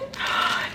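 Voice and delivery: sudden intake of breath; excited gasp. Real, not acted. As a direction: gasp as you recognize it. Realizes what the pin is.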